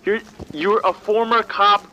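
loud, high, exasperated; angry rant. Acted. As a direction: berate him, disbelieving. Ranting at absurd agent.

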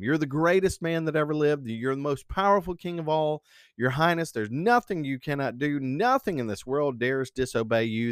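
lightly acted fawning courtiers; mild flattery. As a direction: flatter the king, a little eagerly. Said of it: "full of flattery all the time".

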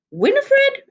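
calling out loud and high from the house; anxious call. A narrator's reading. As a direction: shout her name across the yard, worried. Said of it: "an anxious voice called from the cottage".

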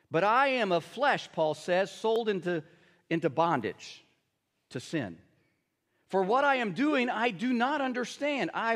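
measured, deliberate Bible reading; scripture reading. Acted. Pastor reading Romans to the congregation, measured scripture reading. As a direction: read the passage with weight.

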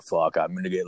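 a hint of a low drone; low monotone dude. Tattooed coworker announcing his plan, mild mock monotone. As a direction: lightly imitate a monotone coworker. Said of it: "he's, like, this low monotone dude".

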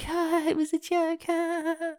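high mock laughing excuse; fake laugh. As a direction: squeak out a fake ha ha.

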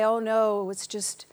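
a dismissive skeptic, half-whispered; mocking quote. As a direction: brush it off like a doubter. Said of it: "I have heard people say".

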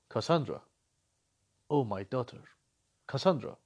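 deadpan the reunion to show how cringey it was; mocking flat father. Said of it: "Nicholas looks at you like".

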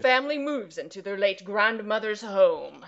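slow, dramatic trailer-guy voice; movie trailer announcer. Acted. Host redoing the log line, movie trailer announcer voice. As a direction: announce it like an epic commercial. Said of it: "like the guy in the commercials".

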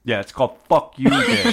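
laughing as he lands the joke. Real, not acted. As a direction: grin through the punchline. Joking punchline.

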